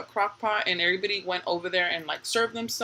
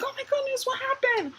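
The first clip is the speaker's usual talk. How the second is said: mock alarm. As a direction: imitate a startled mom checking on screaming kids. Acts herself alarmed at kids' screams.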